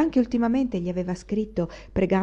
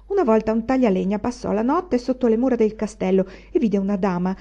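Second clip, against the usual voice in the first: lightly voiced old woman, raised and wondering; a hint of an old nurse spinning a ghost tale; mildly animated storytelling granny; old servant telling legends; 4 semitones higher, 4 dB louder than usual. Varvara tells ghost legends.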